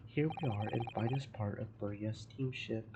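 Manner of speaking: a hint of a Russian accent, gruff and proud; broken-English Russian sailor. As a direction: play the touchy ship's guard, lightly accented. Guard boasts about the cabins.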